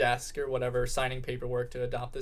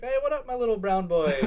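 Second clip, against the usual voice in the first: high, louder teasing hail; playful greeting; 9 semitones higher, 5 dB louder than usual. Retold or imitated. Greeting Steven as if he's my boyfriend, playful. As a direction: call out playfully in a raised pitch.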